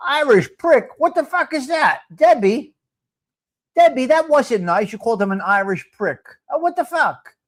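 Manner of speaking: indignant disbelief. Real, not acted. Outraged at clip.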